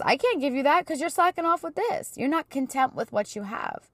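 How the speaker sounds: high-pitched, reasoning reproof; mock reproving God. God explains to a slacker why not, in high-pitched reproof. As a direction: voice God turning someone down, pitched well up.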